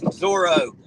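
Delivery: loud, delighted call of the name Zorro; Zorro! called out with glee; excited. Real, not acted. Excited shout of a favorite show.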